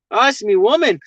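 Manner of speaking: playful put-on Australian twang; imitated Aussie accent. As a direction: try it out as an Aussie bloke. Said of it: "they don't say woman".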